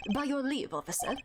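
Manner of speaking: put-on German accent. Voicing Gavin greeting a young woman: German accent as Gavin. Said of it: "do I need to give him a German accent?".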